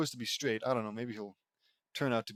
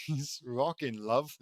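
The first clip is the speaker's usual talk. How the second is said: put-on British accent; slower than usual. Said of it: "in a British accent".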